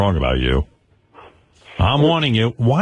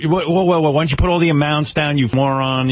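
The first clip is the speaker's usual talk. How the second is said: mildly outraged fan, pitched up; mock vicious attack; 4 semitones higher than usual. Host acts out fans berating Eric, mock angry heckling. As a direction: break in with mock indignation.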